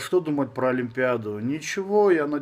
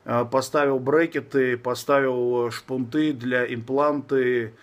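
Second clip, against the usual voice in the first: slushy lisp, new braces on teeth. Real, not acted. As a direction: talk around fresh braces. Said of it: "Шепелявлю, потому что у меня... Поставил брекеты".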